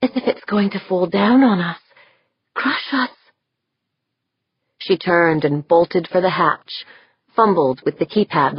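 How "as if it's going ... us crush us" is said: put-on little girl frightened. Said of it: "in a little girl's frightened voice".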